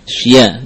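"sya" read as sh-ya, as if spelt S Y; inserted Y. Shown as a demonstration. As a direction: put a Y glide inside "sya". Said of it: "terbayang dengan S Y". ("sya" dengan bunyi ya terselip)

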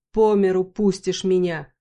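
громко и медленно, с отчаянием; взмолись о деньгах; отчаянно. Acted. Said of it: "отчаянно посмотрел в потолок". (Бархан жалуется героине: отчаянно)

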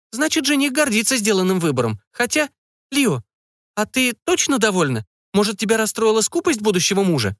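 prying mother digging for details, pitched high. A narrator's reading. Mother questioning her daughter about the groom, high curious voice.

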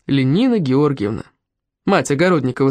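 plain reading voice

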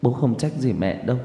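choked up. Acted. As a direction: comfort your mother through a lump in the throat. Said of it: "Tôi nghẹn ngào". (nghẹn ngào an ủi mẹ, hơi nhỏ)

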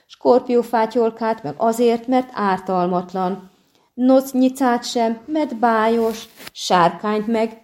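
high, slow, sing-song mockery; taunting a friend with his own rules; mocking list. A narrator's reading. Poet mockingly lists monsters spared.

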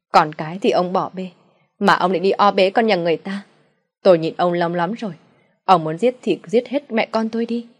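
wife yelling defiance into her husband's face; near-yelling mother. Acted. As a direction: dare him to do it. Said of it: "Mẹ chị nói như hét vào mặt cha chị".

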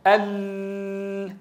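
held ال- with the lam shut in at the side; choked lam. Shown as a demonstration. Teacher mimicking students who close the side, choked ال-. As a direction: wrongly choke the L in ال-, sustained and softened. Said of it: "البعض يج-، ينطق اللام فيقول".

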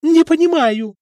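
high, loud shriek; wife shrieks back at husband. A narrator's reading. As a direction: scream it out at him. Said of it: "взвизгнула Людмила".

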